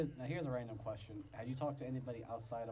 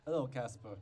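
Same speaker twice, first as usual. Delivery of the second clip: Casper voice; 3 semitones higher, 7 dB louder than usual. Acted. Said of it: "Casper is the more monotone like this".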